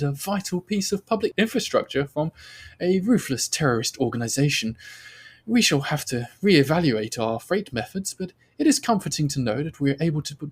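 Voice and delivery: stately female commander addressing her team; commanding officer. Acted. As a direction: deliver an official commendation as a commander. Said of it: "the face of your commanding officer".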